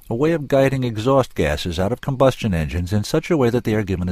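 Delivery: lightly voiced inventor explaining with conviction; lively, emphatic technical explanation; impassioned inventor. Inventor telling her about his exhaust system, lightly impassioned.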